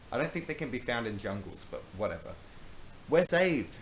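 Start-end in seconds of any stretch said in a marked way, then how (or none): 3.1-3.8 high loud cry of relief; shouting. Acted. Tim relieved at finding food, loud high shout. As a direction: yell it out, overjoyed. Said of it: "shouted Tim".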